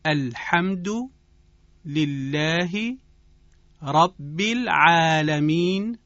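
slow Arabic accent for repeating; phrase-by-phrase Arabic-accented model. Shown as a demonstration. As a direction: lead a class in careful Qur'anic Arabic, vowels stretched. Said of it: "با من تکرار بفرمایید".

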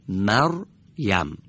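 مریم slowly, the ر joined to the short a before it; slow model reading. Shown as a demonstration. Teacher models مریم slowly for the class. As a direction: linger on مریم.

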